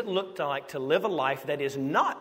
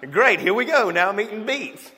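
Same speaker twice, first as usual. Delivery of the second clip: loud, higher, sarcastic groan of a line; mock resignation; 4 semitones higher, 8 dB louder than usual. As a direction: give in with exaggerated sarcasm. Resigned to eating beets.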